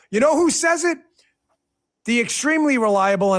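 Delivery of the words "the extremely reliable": drip sarcasm on reliable; mock praise for a paper he distrusts; heavy sarcasm. Host mocking the Washington Post, heavy sarcasm. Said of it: "I say that with a heavy dose of sarcasm".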